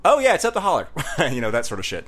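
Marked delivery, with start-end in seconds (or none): 0.0-0.9 high, loose Southern holler-dweller; local Southern accent. Retold or imitated. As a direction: give directions in a high Southern twang. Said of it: "they all talk like that".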